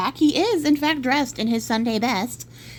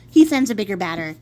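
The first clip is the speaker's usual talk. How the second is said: laughing retell; 2 semitones lower, 4 dB louder than usual. Real, not acted.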